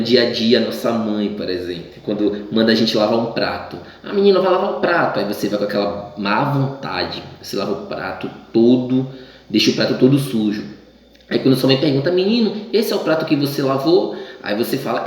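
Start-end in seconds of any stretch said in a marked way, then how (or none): 4.0-5.2 high, quick bossy mom voice; mock mother's command, pitched up; mother's order. Mother orders child to wash dishes. 12.1-14.2 high, accusing mom question; imitating a mother checking the dishes; suspicious mother. Mother questions the dirty plate.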